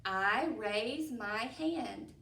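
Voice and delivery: very slow I love school, each word apart. Shown as a demonstration. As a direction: count each word slowly. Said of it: "The next one is".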